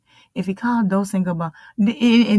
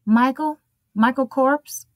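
waiting-room name call; 3 semitones higher, slower than usual. Acted. Doctor's office calling the next patient in, questioning call. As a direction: call out the name with a rising lilt. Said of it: "they come and they open the door".

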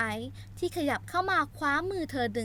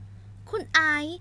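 high, sharp scolding heroine; angry outburst; 7 semitones higher than usual. Acted. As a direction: snap back at him to let her go. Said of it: "โซล่าตวาดลั่น".

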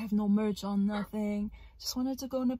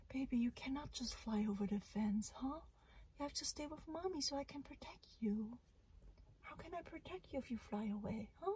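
soft, hushed mothering to the bird; tender whispered scolding; 3 semitones higher, 12 dB quieter than usual. Real, not acted. Scolding her bird softly.

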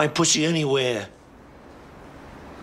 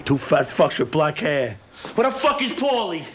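angry demand; 3 dB louder than usual. Acted. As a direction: snap at the room for Paulie. Boss furious at absent man.

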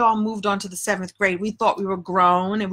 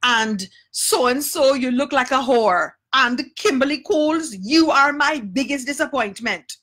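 higher, slow, stern rebuke; scolding teacher; 4 semitones higher, slower than usual. Retold or imitated. Teacher catching the girls in the hallway, mock stern scolding. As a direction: call each girl out one by one. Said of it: "And she was like".

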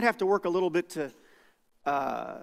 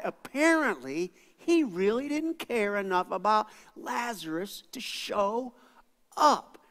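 skeptical onlookers; 3 semitones higher than usual. Retold or imitated. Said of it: "They're going".

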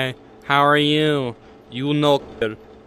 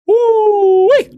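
much higher, louder whoop; real victorious whoop; excited whoop; 8 dB louder than usual. Real, not acted. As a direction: whoop it out in triumph. Celebrates surviving.

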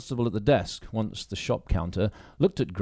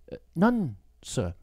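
put-on higher, hesitant young woman; young woman's voice; 7 semitones higher than usual. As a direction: bite back the questions politely. Grace answers the sergeant.

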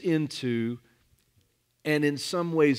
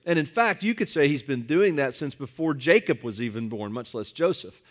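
rising, louder preacher's push; preaching; 3 dB louder than usual. Acted. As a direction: build the point with fervour. Preaching builds up.

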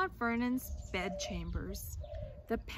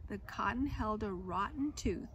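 lively storybook reading voice; reading to children; 4 dB louder than usual. A narrator's reading. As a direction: read the tale aloud to a class. Reads picture book aloud.

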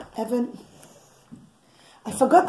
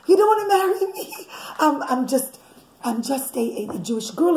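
put-on frightened girl; 6 semitones higher than usual. Osnat protesting, frightened.

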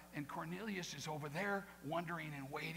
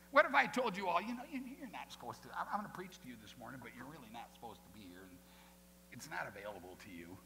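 reluctant Peter; 4 semitones lower, faster than usual. Acted. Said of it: "He says to him".

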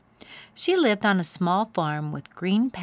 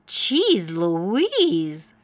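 louder, startled mouse; amazed exclamation; 6 dB louder than usual. A narrator's reading. Mouse amazed at becoming a driver, startled. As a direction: gasp at the change. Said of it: "said Sam".

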